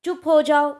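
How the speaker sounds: stern command. Shown as a demonstration. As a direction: hush the class with a sharp command. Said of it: "ये आज्ञा दे रहे हैं आप". (डाँटकर चुप कराते हुए)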